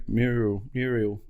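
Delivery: "mural" tried out twice, myoor-ul then myoor-ee-ul; struggled pronunciation. Shown as a demonstration. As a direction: grope for "mural" with a myoo start. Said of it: "Another word that I can't pronounce".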